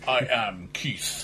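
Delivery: low, slow jaw-out voice; underbite. Pretend. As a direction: jaw jutted forward, drawn out. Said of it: "jutting his jaw out heroically".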